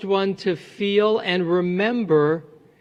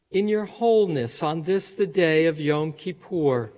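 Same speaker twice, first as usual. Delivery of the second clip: gentle guided-meditation delivery, a little softened; 4 dB quieter than usual. Real, not acted. Rabbi leading congregants in breathing before Yizkor, quiet meditation voice. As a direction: ease them into calm with unhurried pauses.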